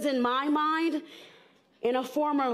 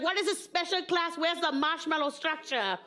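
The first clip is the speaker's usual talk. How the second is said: quick, higher demanding mom; indignant mother; 4 semitones higher than usual. Acted. Mother confronting the kindergarten teacher, acted indignation. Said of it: "she dragged me up to Missus K".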